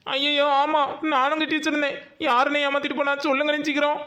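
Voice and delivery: frantic to know who cheated them; high-pitched worried hurry; alarmed panic. Acted. Panics she paid chit fund too.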